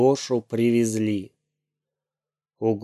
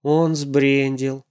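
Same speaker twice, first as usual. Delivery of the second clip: upset; 2 semitones higher, much slower than usual. Acted. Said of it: "расстроенно сказал папа".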